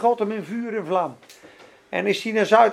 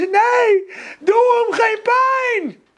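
high, loud, crying out; imitating Kathryn Kuhlman crying out in anguish; sobbing plea; 12 semitones higher, 6 dB louder, much slower than usual. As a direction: beg through tears, much higher and louder. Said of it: "toen hoorde die er zo snikken".

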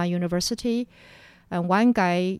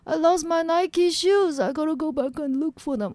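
higher, louder insistent repeat; 8 semitones higher, 5 dB louder than usual. Retold or imitated. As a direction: insist on it like an urgent errand. Dazed friend insists on shoes.

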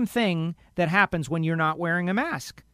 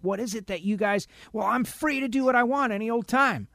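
mocking the defiant; 5 semitones higher than usual.

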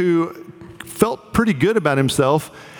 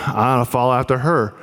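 put-on drunk voice; 4 semitones lower, faster than usual. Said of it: "that was my drunk voice".

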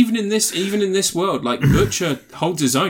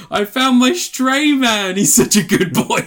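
put-on high, slow cooing over a good boy; doting pet owner voice; 10 semitones higher, 5 dB louder, slower than usual. Friend posting about his stray man, cooing like a pet owner. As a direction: coo it like praising a dog. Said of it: "Mark Bonanno on Instagram just put".

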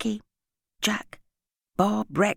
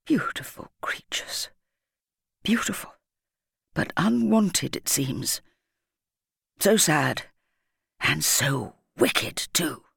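sad; 2 semitones lower, slower than usual. A narrator's reading. Headteacher looking into the sack of puppies, sadly. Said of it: "shaking her head sadly now".

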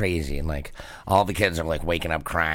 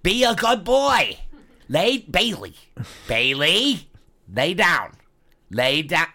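much higher, louder dog-command voice; 12 semitones higher, 4 dB louder than usual. Retold or imitated. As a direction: order the dog to lie down.

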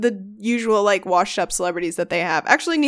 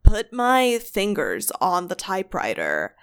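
put-on retelling in a light California accent; dreamy West Coast lilt, lightly done. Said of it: "this accent".

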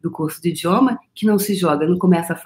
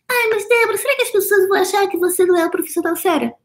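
much higher, quick, whiny doubting voice; whiny imagined doubter; 12 semitones higher, faster than usual. Pretend. Doubter fretting to Débora about seriousness, high whiny mimicry. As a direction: mimic a fretting critic, pitched way up.

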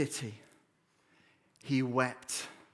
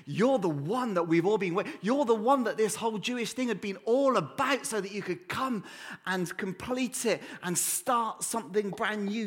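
Peter's awed, higher-pitched confession; 3 semitones higher than usual. Acted. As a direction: voice Peter's wonder as it dawns on him. Peter's astonished confession voiced.

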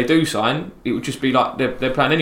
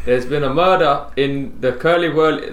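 slow, badly faked Scottish; half-hearted Scottish attempt; Scottish accent; slower than usual. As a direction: feel your way slowly through a Scottish accent. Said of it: "No, I can't do it".

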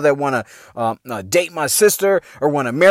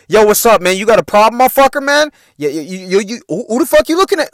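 mock tough-guy challenge; 4 semitones higher than usual. Brothers squaring up to the dudes bothering their sister, mock-aggressive. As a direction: puff up like a pit bull ready to fight.

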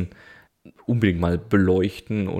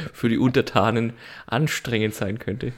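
snooty aristocratic german. Acted. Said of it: "im Pluralis Majestatis sprechen".

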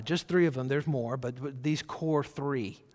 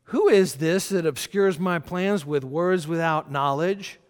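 booming voice of God; 3 semitones higher, 6 dB louder than usual. Acted. Preacher voicing God's words.

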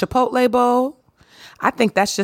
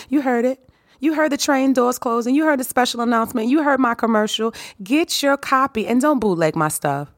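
excited; 5 semitones higher than usual. Acted. Teasing the listener about the announcement.

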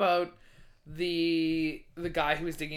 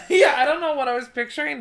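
laughing; 9 semitones higher, 9 dB louder than usual. Real, not acted. Laughing at own mishearing.

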